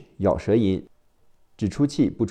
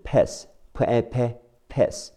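American accent; 4 semitones higher, much slower than usual. Shown as a demonstration. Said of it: "美式发音是".

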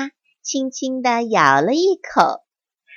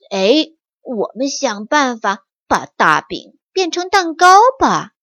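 eager idea; 4 dB louder than usual. Acted. Eldest mouse has an idea.

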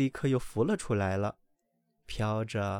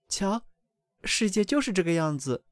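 higher, louder knowing mother; mother duck teaching the ducklings, higher; worldly mother duck; 7 semitones higher, 4 dB louder than usual. A narrator's reading. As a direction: point it out with a sigh. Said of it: "小鸭的妈妈说道".

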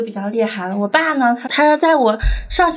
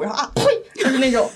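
imitated spitting; much faster than usual. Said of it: "我私下会学各个老师不同的怎么咳痰的".

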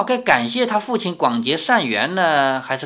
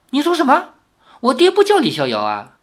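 higher and louder, blurted in shock; shocked disbelief; 10 semitones higher, 4 dB louder, faster than usual. Acted. Young man startled when old woman names the wrong father, shocked. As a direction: cry out in sudden confusion.

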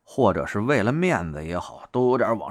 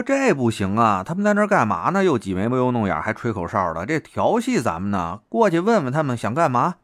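put-on indignant girlfriend. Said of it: "这女朋友脾气上来了".

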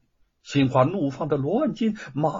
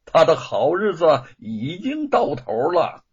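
gloating with a laugh in it; smug father laughing at a rival's ruin; 4 dB louder than usual. Acted. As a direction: savor the rival's downfall, chuckling. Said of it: "幸灾乐祸地说".

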